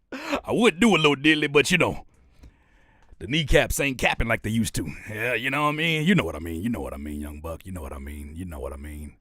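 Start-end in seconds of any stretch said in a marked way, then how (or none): 6.0-9.2 put-on old man voice. Playing old man to young buck.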